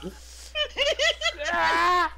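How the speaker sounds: rapid high, loud no no no; panicking gamer. Real, not acted. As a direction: babble in panic, laughing. Being caught by the monster.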